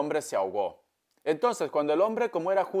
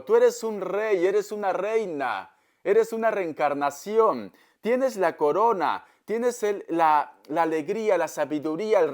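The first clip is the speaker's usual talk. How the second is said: crown the listener with every word; exalted proclamation; 3 semitones higher than usual. Real, not acted. Tarot reader proclaims the client's gifts. (exaltada, lenta y solemne)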